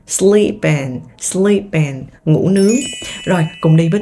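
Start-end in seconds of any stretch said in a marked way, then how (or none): 0.1-2.0 "sleep in" linked, p running into in; linked pronunciation. Shown as a demonstration. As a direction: join "sleep in" as one word. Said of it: "Nối âm sleep in".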